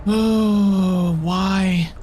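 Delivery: panicked high yelp of dismay. Real, not acted. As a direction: cry out in a sudden panic. Monster close, panicked.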